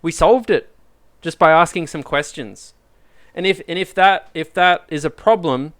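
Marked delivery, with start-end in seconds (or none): 0.0-2.7 excited. Pretend. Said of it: "And you'll be like".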